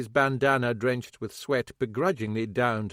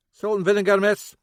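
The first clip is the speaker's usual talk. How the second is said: out of breath; 10 semitones higher, 9 dB louder than usual. Acted. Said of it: "half out of breath from his jog".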